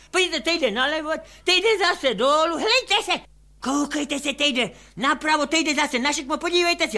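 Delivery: a hint of a flustered drunk; agitated drunk. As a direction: chase the moving keyhole. Drunk describes moving keyhole.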